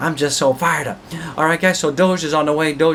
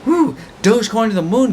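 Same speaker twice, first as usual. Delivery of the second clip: excited cheer; 7 semitones higher than usual. Real, not acted. Hyped crypto vlogger cheering.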